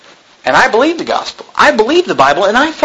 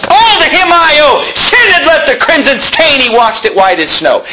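fervent hymn quote; 8 semitones higher than usual. Acted. Quoting hymn with fervor.

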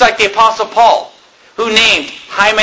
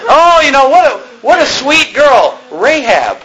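mock gushing parent; 5 semitones higher than usual. Preacher mocking parents naming a daughter, high sweet gush. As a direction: gush sweetly over the girl.

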